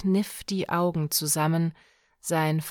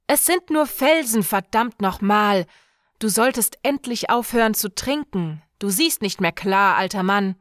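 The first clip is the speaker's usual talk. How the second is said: angry; 2 semitones higher, 5 dB louder, faster than usual. Acted. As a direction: snap at the old man. Björk angrily dismissing.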